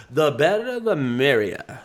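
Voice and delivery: slow, drawn-out cocky quip; confident, teasing brag. Retold or imitated. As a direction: toss it off like you don't care who's coming. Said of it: "kinda like a cocky".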